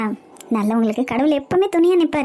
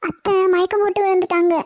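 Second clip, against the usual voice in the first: tearful plea; 6 semitones higher than usual. Acted. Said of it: "ஏன் அழுதுகிட்டு இருக்க?".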